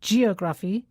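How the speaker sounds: geography with the stress wrongly on GE, rising; teacher showing a wrong stress. Shown as a demonstration. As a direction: misplace the stress in geography on purpose.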